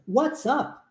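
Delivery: "WhatsApp" with a clear T and P, carefully; neat textbook WhatsApp. Shown as a demonstration. Teacher models the careful classroom pronunciation. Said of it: "essa pronúncia bonitinha".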